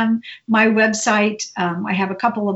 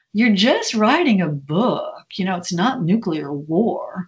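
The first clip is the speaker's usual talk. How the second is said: put-on Sue Grafton's accent. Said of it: "her wonderful accent".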